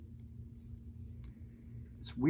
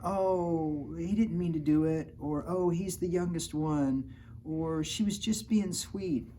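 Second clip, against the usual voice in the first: higher, sing-song excuse voice; sweet excuse voice; 5 semitones higher, slower than usual. Retold or imitated. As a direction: plead sweetly to get away with it. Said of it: "It's like".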